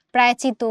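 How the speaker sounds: প্রায়চিত as "praychito", without the "sh"; wrong reduced form. Shown as a demonstration. Teacher showing a second error, প্রায়চিত without "sh". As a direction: drop the "sh" and single the "t" in প্রায়চিত. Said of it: "প্রাশ্চিত্ত বলি না".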